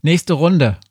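quizmaster calling the next round. A narrator's reading. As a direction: lift the voice a little to announce. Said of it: "rief ich".

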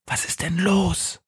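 leise, höhere Stimme, behutsam fragend; flüsternd. A narrator's reading. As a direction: sanft und leise nachfragen. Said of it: "flüstert sie". (behutsames, leises Flüstern)

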